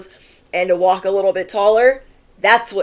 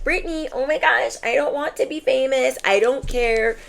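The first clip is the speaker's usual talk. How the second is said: high, flustered pretend objection; a reluctant viewer voiced in a high, flustered protest; mock protesting viewer; 4 semitones higher than usual. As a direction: play a shy viewer waving off fame, pitched up. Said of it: "You could be like".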